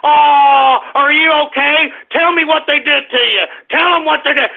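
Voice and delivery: a high, hammed-up worried mom; mock coddling mother. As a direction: fuss over the kid like a doting mom, mockingly.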